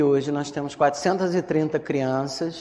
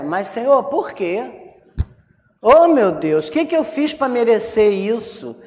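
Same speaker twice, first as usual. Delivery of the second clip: mock lament to God; 4 semitones higher than usual. Believer asking God why after a loss, mock lament. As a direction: plead as a hard-done-by believer, hammed-up.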